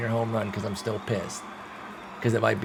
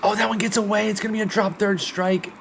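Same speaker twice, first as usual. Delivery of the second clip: much higher and louder, disbelief at the error; dismayed surprise; 11 semitones higher, 4 dB louder than usual. Real, not acted. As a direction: groan it out in shock. Costly dropped third strike.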